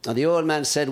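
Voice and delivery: normal talking voice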